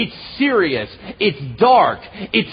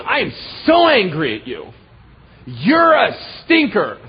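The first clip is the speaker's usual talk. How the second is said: imitated child's angry shout, drawn out; mock tantrum yell; mad little kid; 3 dB louder than usual. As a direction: stress each word like a furious five-year-old. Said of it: "she got really mad at me one day".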